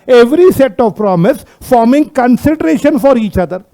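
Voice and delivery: very slow, word-by-word reading; measured dictation pace. Shown as a demonstration. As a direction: spell out the legal wording slowly for students. Reading the law's wording to class.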